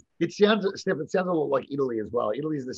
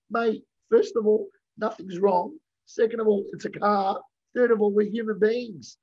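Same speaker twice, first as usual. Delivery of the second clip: exasperated retort; 6 semitones higher, 4 dB louder than usual. Retold or imitated. Retold telling off a yelling driver.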